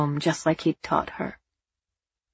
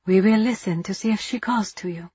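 soothing softly; 3 semitones higher than usual. Acted. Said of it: "she soothed softly".

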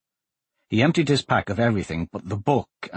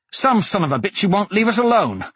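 angry retort; 9 semitones higher than usual. A narrator's reading.

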